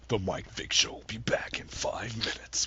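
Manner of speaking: slow whispered mock announcement; fake commercial announcer. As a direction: whisper it like a station break. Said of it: "one of those cool, you know, fake commercial things".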